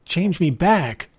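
high, slow, drawn-out plea; pleading. A narrator's reading. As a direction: beg to have it undone. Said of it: "George pleaded".

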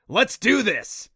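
rally everyone to charge; eager cheer. Acted. The Kelpie rallying the group, loud eager cry.

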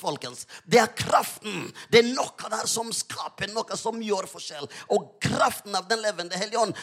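insistent sermon with punched key words; fervent preaching. Real, not acted. Preacher proclaiming Jesus as transforming power, fervent preaching. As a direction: drive home the word "kraften".

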